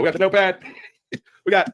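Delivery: mock skit voice. Acted skit of the woman.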